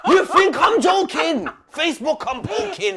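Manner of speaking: slow, loud, laughing through it; laughing insistence. Real, not acted. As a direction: say it while cracking up. Repeats while laughing.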